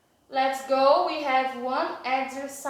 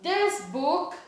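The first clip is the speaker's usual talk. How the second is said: slow clear reading; much slower than usual. Shown as a demonstration. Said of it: "reading the exercise sentence aloud".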